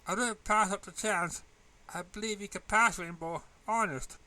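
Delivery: a hint of a kind teacher reassuring her student; voiced teacher Shirley. Teacher Shirley encourages Rainbow.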